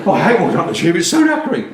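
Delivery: a puffed-out commuter moaning about the stairs; mock winded Londoner whinging. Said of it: "I see people on the tube ... go like this".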